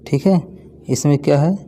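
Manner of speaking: normal talking voice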